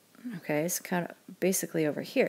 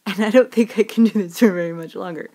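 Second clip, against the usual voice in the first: put-on old English woman; 2 semitones higher, 7 dB louder, faster than usual. Struggling to keep the voice going.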